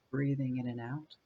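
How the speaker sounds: calm meditation guide with long pauses between phrases; unhurried body-scan guidance, spaced out by silences; guided meditation. Real, not acted. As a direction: lead them gently through breath and body, leaving space after each phrase.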